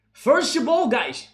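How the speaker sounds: mock goalkeeper barking at his defenders; calling out. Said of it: "That's what Alisson told the man".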